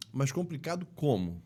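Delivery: changed tone. Shown as a demonstration. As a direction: voice back up after the downcast line. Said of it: "Você já dá um outro tom". (tom firme de quem questiona)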